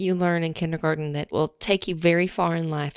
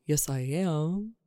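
worm puppet voice; 4 semitones lower, 6 dB quieter, slower than usual. Acted. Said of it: "it's a hand puppet".

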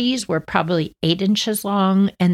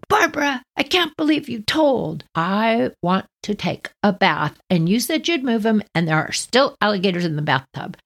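mock outraged sister; 4 semitones higher than usual. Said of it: "Johnny comes flying down the hall".

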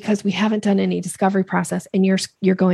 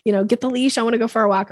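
eager dog; 3 semitones higher than usual. Pretend. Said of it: "They're like".

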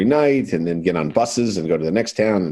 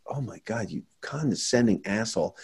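muttered retort; 8 dB quieter than usual. Retold or imitated. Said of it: "I'm like".

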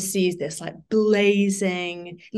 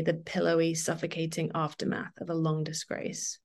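reading aloud. Acted. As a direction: read the novel's opening to listeners, evenly. Reads novel's opening aloud.

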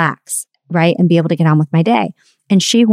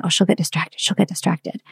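quiet inner thought; 7 dB quieter than usual. Retold or imitated. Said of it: "I kept thinking".

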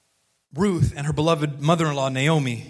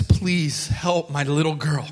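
drawn-out humble plea on her knees; begging softly; 2 semitones lower, slower than usual. Retold or imitated. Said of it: "She begs".

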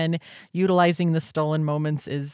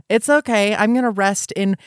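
reassuring self-talk; 4 semitones higher, 7 dB louder than usual. Retold or imitated. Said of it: "Now I'm gonna say".

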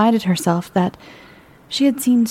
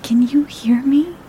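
whispering; 7 semitones higher than usual. Acted. Reaching out to the mime.

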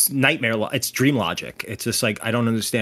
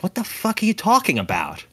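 higher-pitched incredulous quote; retold bewilderment; 6 semitones higher than usual. Man mistaken for a drunk actor, mock bewilderment. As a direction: imitate a baffled man protesting.

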